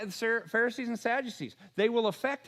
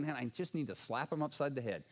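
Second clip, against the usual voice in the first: mock exasperated aside; 8 semitones lower, 8 dB quieter than usual. Jesus imagined muttering in frustration.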